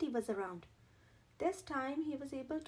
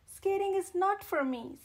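higher and louder, a resigned sigh of a line; Sebastian's glum thought; 6 semitones higher, 8 dB louder than usual. A narrator's reading. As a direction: give up on skating out loud. Sebastian's thought, voiced aloud.

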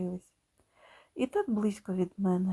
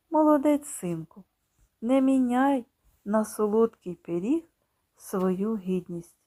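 proud father. Acted. Father hugging his son, proud then tender. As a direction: praise him, then comfort.

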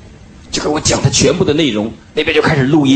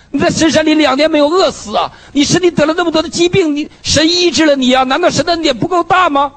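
preacher's impassioned rebuke of himself; self-rebuke; 8 semitones higher than usual. Retold or imitated. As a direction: scold yourself with rising fervour. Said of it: "我说".

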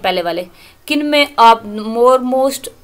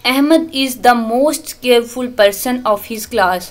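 very slow, each word laid out for students; slow classroom dictation of an English example; much slower than usual. Shown as a demonstration. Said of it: "teacher reads example slowly".

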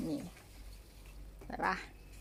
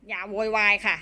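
1 polite scolding; 6 dB louder than usual. Real, not acted. Owner scolding noisy pet.

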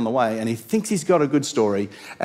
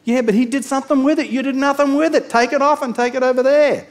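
firm retort; 10 semitones higher, 5 dB louder than usual. Retold or imitated. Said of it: "master answers".

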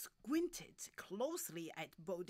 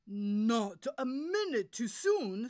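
very loud, higher-pitched; urgent director; 5 semitones higher, 14 dB louder than usual. Acted. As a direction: project impatience across the stage. Director, urgent before curtain.

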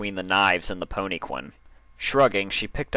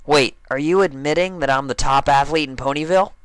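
surprised; 7 semitones higher, 6 dB louder than usual. Acted. Dash surprised, eager.

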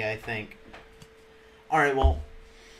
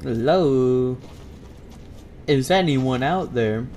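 calling out; 2 semitones lower, slower than usual. Acted. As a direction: call out into the distance. Calling out in empty game.

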